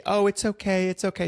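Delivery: high-pitched, hurried soothing; mock quick reassurance. Voicing the reassurance she didn't give.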